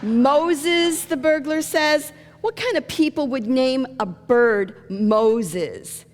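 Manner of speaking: high, loud disbelief; incredulous echo. Acted. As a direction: throw the name back in mock astonishment. Burglar incredulous at bird's name.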